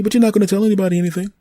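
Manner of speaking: a living tree explaining itself to the human, high and smug; talking tree. Acted. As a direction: play the tree, smug and amused. Tree character threatens.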